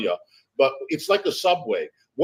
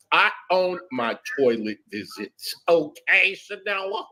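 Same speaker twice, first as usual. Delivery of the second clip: sassy rebuttal; 5 semitones higher than usual. Real, not acted.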